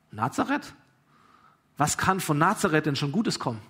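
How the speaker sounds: doubt it like a grumpy sceptic; grumpy disbelief. Retold or imitated. Nathanael doubts his brother's news, acted grumpy disbelief. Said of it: "diesem mürrischen, leicht ungläubigen Nathanael".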